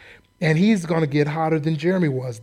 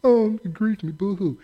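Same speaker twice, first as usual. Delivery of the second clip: mock crying; 2 semitones higher than usual. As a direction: parody a weepy lament. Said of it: "he cried like a turkey".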